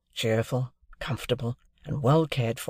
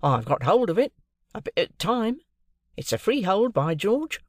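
Wemmick voice; 8 semitones higher than usual. A narrator's reading. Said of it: "said Wemmick".

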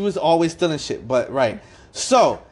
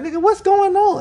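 retold shocked question; 4 dB louder than usual.

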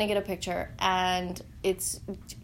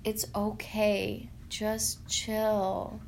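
calm reassurance; much slower than usual. Retold or imitated. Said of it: "I hear him say".

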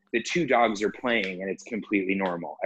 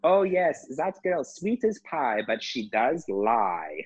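mock lady, slow; slower than usual. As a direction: imitate her spilling gossip, drawn out. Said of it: "she goes".

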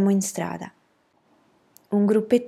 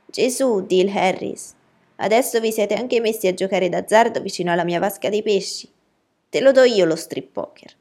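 loud, scolding neighbour's outburst; indignant shriek; 2 semitones higher, 6 dB louder than usual. A narrator's reading. Miss Rachel scolding Dill for gambling by her fishpond, indignant shriek. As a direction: raise the voice and rail at the boy. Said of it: "perché Miss Rachel strillò, come la sirena dei pompieri".

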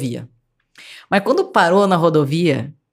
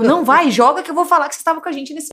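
urgent pleading; 6 semitones higher than usual. Retold or imitated. Urging kidnapper to drop gun.

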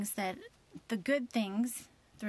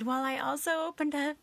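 sheepish confession; 6 semitones higher, 5 dB louder than usual. Retold or imitated. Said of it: "then I said".

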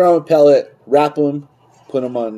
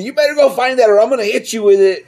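mock angry dad; 11 semitones higher, 3 dB louder than usual. Dad threatening in retold story.

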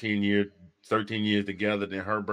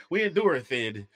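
mock country preacher; 2 semitones higher, 4 dB louder than usual. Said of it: "country preachers just make words up".

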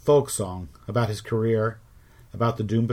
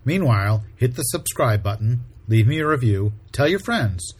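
upbeat podcast outro; 5 dB louder than usual. Acted. Podcast outro over music.

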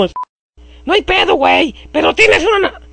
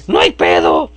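put-on voice; 5 semitones lower than usual. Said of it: "me olvida la voz".

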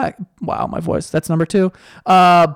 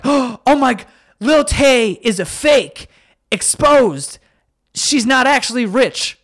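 higher, mock-gasping outrage; mock shocked people; 7 semitones higher than usual. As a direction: play the scandalized crowd. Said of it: "people are like".

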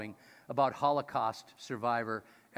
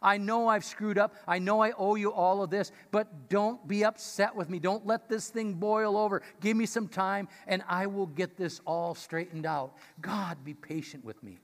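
earnest plea; 3 semitones higher than usual. Acted. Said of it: "He says".

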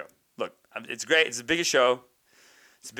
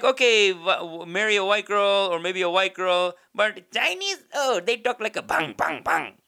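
higher, louder mock Indian-elder voice; imitated relative's accent; 6 semitones higher, 5 dB louder than usual. Someone advising on whom to marry, mimicked Indian accent. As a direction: imitate an Indian elder grudgingly allowing, then objecting. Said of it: "They were kinda like".

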